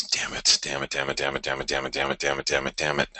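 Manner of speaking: soft, repeated damn it under the breath; quiet real annoyance at a missed chart move; muttered frustration. Real, not acted. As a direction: grumble it softly to yourself, over and over.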